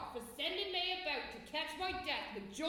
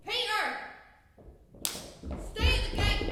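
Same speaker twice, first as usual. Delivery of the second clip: calling out; 7 semitones higher, 7 dB louder than usual. Acted. Nurse orders servant away.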